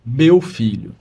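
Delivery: imitating a nun's characteristic intonation; irmã Zélia. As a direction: mimic the nun's falling cadence. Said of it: "vai dar até a entonação dessa voz".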